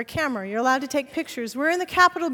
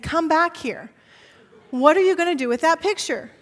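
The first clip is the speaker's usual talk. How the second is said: retold guard shouting; 4 semitones higher, 6 dB louder than usual. Guard chasing her down hall.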